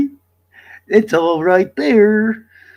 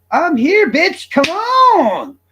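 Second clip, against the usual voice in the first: high, louder mock taunt; retold challenge; 8 semitones higher, 5 dB louder, much slower than usual. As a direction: throw down the challenge, mock-tough. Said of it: "I'm like".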